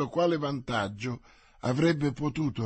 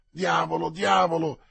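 "Diavolo, diavolo" said louder and higher; mounting exasperation; 4 semitones higher, 5 dB louder than usual. Acted. D'Artagnan, hearing another no, cursing louder. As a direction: let the frustration climb.

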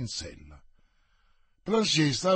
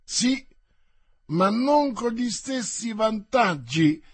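higher, teasing banter; mocking; 5 semitones higher, 3 dB louder than usual. The Gascon mocks the departing captain, teasing and higher. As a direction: tease them with a jaunty lift. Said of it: "rispose burlando il guascone".

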